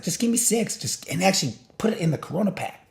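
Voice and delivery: high, put-on voice ordering beer; mock bartender order. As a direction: order the beers in a silly high voice. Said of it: "I was like".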